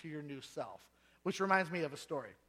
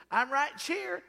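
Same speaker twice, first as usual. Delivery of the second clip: put-on Virginia accent; 6 semitones higher, 4 dB louder, slower than usual. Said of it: "That's how they talk in Virginia".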